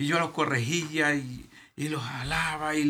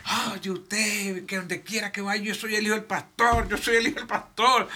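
mock taunt; 6 semitones higher than usual. Pastor mimics people taunting his son everywhere, high and mocking. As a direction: rub it in, sing-song.

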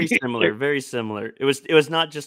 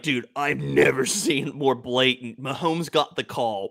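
outraged gambler; slower than usual. Retold or imitated. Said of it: "So it's like".

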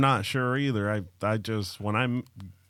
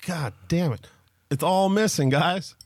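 toothless; 7 semitones higher than usual. Acted. Improv character loses all teeth.

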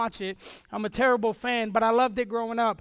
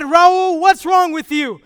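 loud, raised father's voice; louder, retold father's anger; father's demand; 3 semitones higher, 7 dB louder, slower than usual. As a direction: confront the silent son. Father confronting son in truck.

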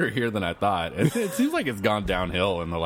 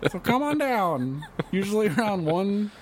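cheesy commercial voice. Pretend. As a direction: sell it like a cheap TV ad. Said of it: "You sound like the, uh, commercial".

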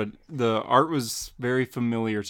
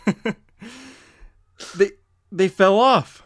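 laughing disbelief; 9 semitones higher, 6 dB louder, slower than usual. Acted. Robin laughs at thugs falling.

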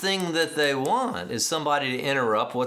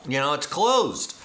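hushed whisper. Acted. Preacher telling the congregation the plane door is sealed, whispered. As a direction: breathe it like a secret.

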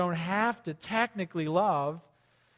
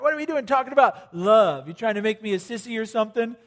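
loud, scoffing macho guy; mock the guys who balk at love; hammed-up tough guy scoffing at love; 3 semitones higher, 3 dB louder than usual. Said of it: "They're like".

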